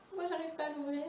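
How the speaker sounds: straining to open a lid; opening a stuck jar. Real, not acted. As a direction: talk while struggling with a cap. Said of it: "je n'arrive pas à l'ouvrir".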